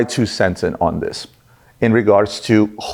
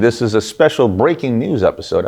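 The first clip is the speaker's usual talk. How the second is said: newscaster voice; 3 semitones higher than usual. Acted. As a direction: open like a TV news anchor. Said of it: "I sound like s-, a newscaster at this point".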